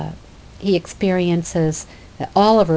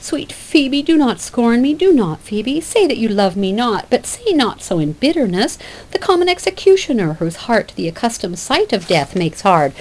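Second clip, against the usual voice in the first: pleading Silvius; 4 semitones higher than usual. Acted.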